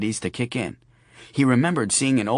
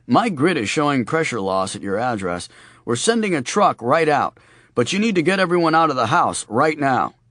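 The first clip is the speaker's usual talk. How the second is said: gas company voice. Acted. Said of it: "his best gas company voice".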